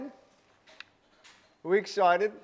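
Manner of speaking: very slow, stretched-out teasing repeat; drawn-out hype. Acted. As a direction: drag it out to tease the crowd. Streamer hyping up live chat.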